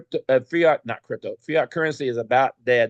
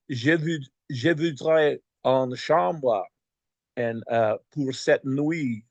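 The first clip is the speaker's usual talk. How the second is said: broken French; slower than usual. Retold or imitated. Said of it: "in my broken French".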